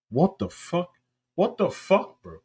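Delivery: baffled at the line; disbelief. Real, not acted. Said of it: "reacting to cheesy line".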